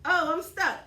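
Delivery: high whiny imitation of a friend. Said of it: "she's just been like".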